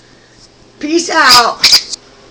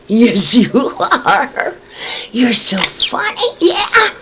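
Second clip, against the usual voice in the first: talking to a dog; 7 semitones higher than usual. Real, not acted. Owner cooing at pet.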